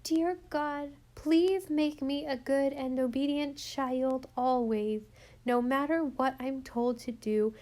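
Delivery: put-on a little girl praying slow and sincere; earnest prayer. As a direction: pray it very earnestly, like a child. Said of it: "Very earnestly".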